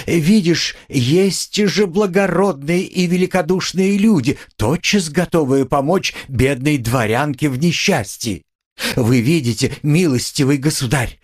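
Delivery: high, overwrought plea from a proud poor lady; feverish, wounded pride; agitated noble widow. A narrator's reading. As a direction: pour out grievances, clinging to dignity. Katerina's agitated pleading speech.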